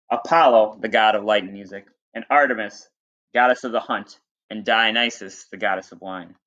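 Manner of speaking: reading a myth aloud to the class; teacher reading a storybook to students; story reading. Acted.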